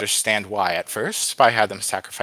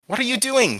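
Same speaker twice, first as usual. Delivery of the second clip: high-pitched, alarmed cry; 4 dB louder than usual. A narrator's reading. Boy to the wind spirit, alarmed cry. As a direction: cry it out in disbelief. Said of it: "he cried".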